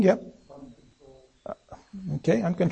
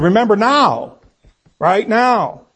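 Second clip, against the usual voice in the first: insistent, raised-pitch demand; 5 semitones higher, slower than usual. Acted. Teacher voices a king's prayer to God, demanding. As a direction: press urgently for it this instant. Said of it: "sort of a demand that comes with that".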